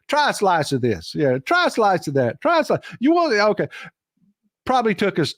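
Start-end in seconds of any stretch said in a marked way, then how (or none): 0.1-3.7 put-on Southern hillbilly accent. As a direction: offer the cheese in a playful Southern hillbilly accent. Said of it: "she went into Southern hillbilly mode with me".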